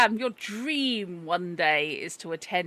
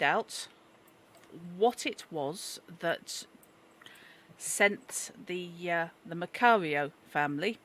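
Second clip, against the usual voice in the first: put-on Yorkshire accent. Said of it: "'cause apparently he's Yorkshire".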